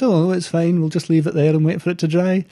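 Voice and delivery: high-pitched put-on Scottish accent. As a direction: play the unbothered locals in Scottish. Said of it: "I've done a terrible Scottish accent".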